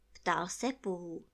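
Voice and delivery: ordinary delivery, nothing marked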